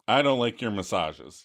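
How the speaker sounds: Chandler's reluctant admission. Retold or imitated. Boyfriend admits the truth to girlfriend, low and reluctant. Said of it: "And Chandler's like".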